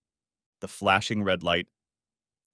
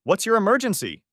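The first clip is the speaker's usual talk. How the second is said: higher, even operator voice; phone operator; 11 semitones higher, 3 dB louder than usual. Acted. The 911 operator answers the call, professional. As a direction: ask it by the book.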